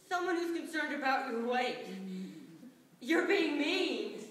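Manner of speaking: slow, pressed mock yell at the puppet; hammed-up drunk partner snapping; mock scream. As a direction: drunk ventriloquist mock-yelling at his puppet on stage. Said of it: "he screams at me".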